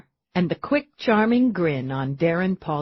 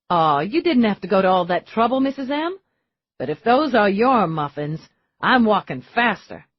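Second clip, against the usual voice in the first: put-on higher boyish voice, rushing at the end; eager young man; 5 semitones higher, 4 dB louder than usual. Denny promising Missus M he'll hurry over, eager and fast. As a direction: charm her, then hurry off eagerly.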